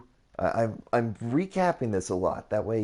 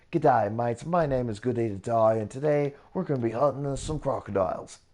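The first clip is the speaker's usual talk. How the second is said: hammed-up Australian accent, a bit higher and louder; 4 semitones higher, 3 dB louder than usual. Builder doing a jokey Australian crocodile-hunter intro for viewers, Australian accent. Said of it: "I can do more of an Australian accent".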